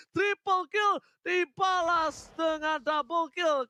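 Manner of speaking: slow, drawn-out hype shout; fighting game announcer. Acted. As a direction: bellow the kill call for the crowd. Hype call of a kill swap.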